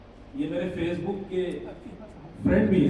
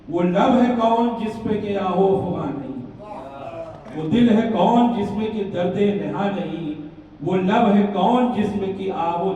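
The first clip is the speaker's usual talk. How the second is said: measured, rhythmic couplet delivery; lilting traditional Urdu verse reading; ghazal recitation; 5 dB louder than usual. Acted. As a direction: recite it line by line for listeners.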